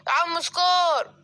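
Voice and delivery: slow, drawn-out shout of سكار; calling out. Acted. The elephant calls out to Scar outside the house, slow drawn-out shout. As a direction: call out to Scar from across the way.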